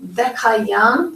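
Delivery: VEKAYAM with a clean K, no throat scrape; hard k. Shown as a demonstration. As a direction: say Vekayam with a simple "k" in the middle. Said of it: "so it doesn't get a ch sound".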